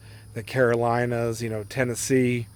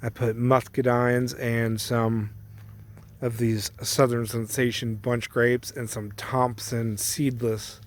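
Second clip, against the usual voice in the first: chewing gum. Real, not acted. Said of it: "Sorry, I got gum in my mouth".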